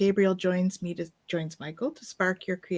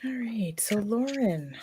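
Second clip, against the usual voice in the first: hushed whisper before the next reading; 2 semitones higher, slower than usual. Real, not acted. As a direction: drop to a whisper to move on.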